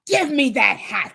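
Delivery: a mild mock demand from the villain; understated greedy magician. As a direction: press for the hat. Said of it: "demanded Professor Hinkle".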